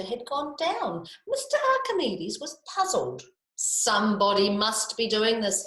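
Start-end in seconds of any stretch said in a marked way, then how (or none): 3.6-5.7 mild shout. Acted. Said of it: "he shouted".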